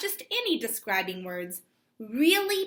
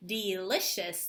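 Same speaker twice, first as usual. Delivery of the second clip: delicious clapped again, softer, falling; softer clapped repeat; 3 semitones lower, 3 dB quieter than usual. Shown as a demonstration. Teacher repeats the clapped word, softer. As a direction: repeat delicious slowly, quieter. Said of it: "Let's clap the word delicious".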